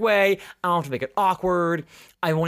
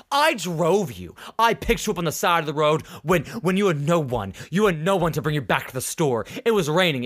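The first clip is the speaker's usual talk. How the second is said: slightly raised, mock outraged; retold outburst; 3 semitones higher than usual. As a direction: play up the wounded customer. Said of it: "He loses his shit".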